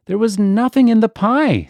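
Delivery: high, loud and stern; severe. A narrator's reading. Ribby insisting to Duchess, severe and loud. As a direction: put her firmly in her place. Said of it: "said Ribby severely".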